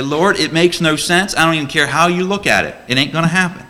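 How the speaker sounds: stubborn protest. Acted. Believer arguing with God.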